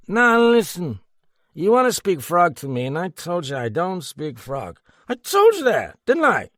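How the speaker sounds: high, loud, stress on told; drunken scolding. A narrator's reading. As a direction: lecture him, sloppily.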